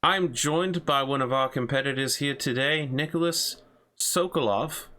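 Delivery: lightly voiced talk show host; upbeat broadcast host voice. Hosts the in-game show.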